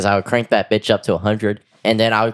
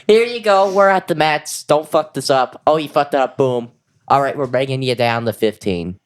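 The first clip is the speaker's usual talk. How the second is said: mock sadistic experimenter; 5 semitones higher than usual. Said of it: "Be like".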